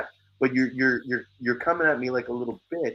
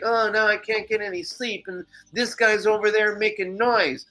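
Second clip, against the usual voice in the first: angry neighbor; 10 semitones higher than usual. Retold or imitated.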